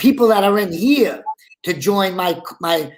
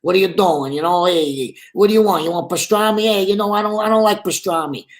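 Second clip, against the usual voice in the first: diner banter in Brooklyn voices. Retold or imitated. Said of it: "talking to the other characters".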